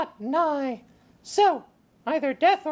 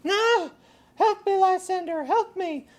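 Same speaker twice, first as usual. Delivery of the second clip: frightened; 3 semitones higher than usual. Acted. Waking from nightmare.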